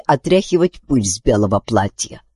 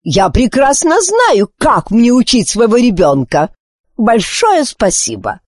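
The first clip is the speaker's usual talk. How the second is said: curt sarcasm; 9 semitones higher than usual. Acted. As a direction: put the raven firmly in its place. Queen curtly dismisses the raven.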